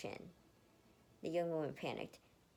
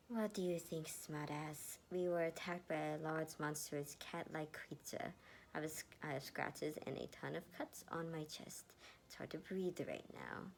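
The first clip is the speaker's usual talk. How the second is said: put-on pained, hushed young woman; hurting and snippy, gasping it out; injured Erica, sarcastic. Injured Erica snapping at her rescuer, pained and hushed.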